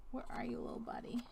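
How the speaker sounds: whispered, coaxing a hiding piece. Pretend. Player searching for a lost puzzle piece, playful coaxing whisper. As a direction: whisper it as if the piece might run off.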